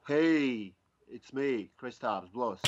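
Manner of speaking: lightly attempted announcer-style greeting; Von Gittin Junior. Shown as a demonstration. Driver attempting an impersonation on request, lightly hyped greeting. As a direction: open on a big hey, then settle down. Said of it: "your best Von Gittin Junior impersonation".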